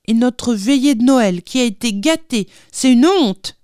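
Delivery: put-on high, exasperated boy's outcry. A narrator's reading. François complaining of the spoilt Christmas Eve, exasperated. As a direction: protest high, thoroughly put out. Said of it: "exaspéré".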